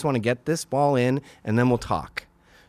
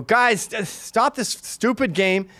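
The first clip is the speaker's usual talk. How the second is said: higher, slowed exasperated order; mild retold scolding; 9 semitones higher, slower than usual. Father to his kids at rough play, mildly exasperated scolding. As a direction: imitate a fed-up dad calling a halt.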